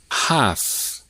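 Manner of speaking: "Half" with the L unpronounced; silent L. Shown as a demonstration. Teacher checking silent-letter answers, silent L in "Half". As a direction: say "Half" without any L sound. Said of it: "Letter L".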